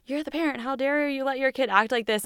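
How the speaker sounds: lightly acted scandalised reproach; mock indignation. Society to a parent in public, mock indignant. Imitates judgmental onlookers.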